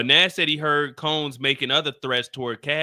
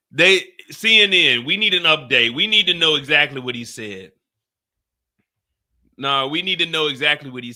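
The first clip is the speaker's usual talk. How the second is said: louder, demanding an update; calling out to CNN; 5 dB louder than usual. Real, not acted. Begging CNN for the full quote, loudly. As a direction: call out to the newsroom.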